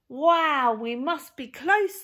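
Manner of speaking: loud, high, thrilled shout; excited cry. Acted. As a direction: call it out with glee. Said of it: "they cried".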